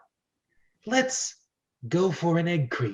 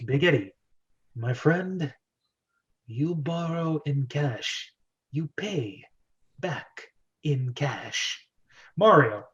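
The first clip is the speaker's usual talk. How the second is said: menacing mob boss. Acted. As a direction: lean in and lay down the rules slowly. Big Eddie threatens Mario.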